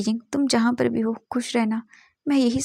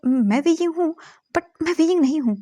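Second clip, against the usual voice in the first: higher and louder, pleading to be believed; frantic, higher, louder protest; excited insistence; 7 semitones higher, 4 dB louder than usual. Acted. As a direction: blurt it out, eager to be understood. Wei Ying insists he is not himself.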